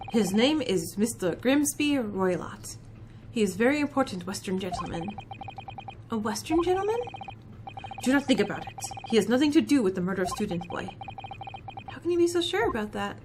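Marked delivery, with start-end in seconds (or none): 0.1-5.1 put-on Stroganoff, Russian accent. 8.0-13.2 put-on a proud Russian crewman, heavy accent; Russian seaman introducing himself, low and gruff; Stroganoff, Russian accent.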